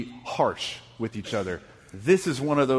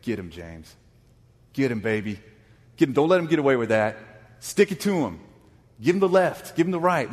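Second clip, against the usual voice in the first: ringside cheering; 4 semitones higher, 5 dB louder than usual. Retold or imitated. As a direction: egg James on like a fighter's corner man. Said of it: "is typically where I would say".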